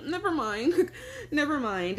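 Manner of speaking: retold awkward backpedal, giggling; laughing brush-off. Telling her friend she won't explain, laughing it off.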